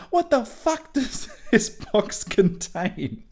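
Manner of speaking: slow, loud line broken by real laughter; cracking up while reading the line; laughing through it. Real, not acted. Reader breaks up laughing at Harry's question.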